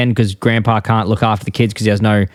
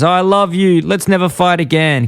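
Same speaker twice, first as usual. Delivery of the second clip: higher, mock-adoring wife; gushing cartoon reconciliation, pitched up; Marge; 7 semitones higher than usual. Wife makes up with her husband, mock-adoring. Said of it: "She goes".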